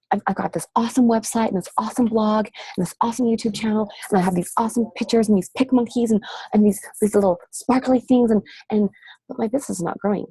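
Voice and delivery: high mock voice of a coach listing her awesome stuff; lightly hammed-up complaining coach. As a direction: play the frustrated coach who misses the point.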